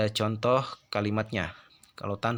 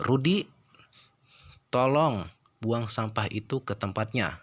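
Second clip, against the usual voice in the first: raised imperative call on "Rudi"; high command intonation. Shown as a demonstration. Teacher demonstrating a command sentence to students, high imperative intonation. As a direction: call "Rudi" high and firm, then give the order. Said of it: "itu berarti intonasinya tinggi".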